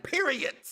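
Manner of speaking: "Period." pitched high and falling to a hard T; emphatic "Period." with a T sound last; final T. Shown as a demonstration. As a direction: close "Period." with a T instead of D. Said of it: "With a T at the end".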